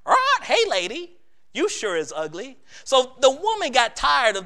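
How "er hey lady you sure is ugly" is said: parrot voice. Acted.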